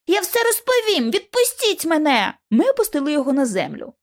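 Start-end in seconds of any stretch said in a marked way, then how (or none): 0.1-2.3 переляканий крик. Acted. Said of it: "заверещав зненацька підліток".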